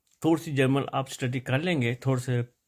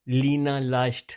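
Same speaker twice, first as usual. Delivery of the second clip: measured German model reading, word by word; reading practice sentence. Shown as a demonstration. Teacher reads the exercise for learners, slowly and deliberately. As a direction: read it out slowly for learners to follow. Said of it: "وہ میں آپ کو پڑھ دیتا ہوں".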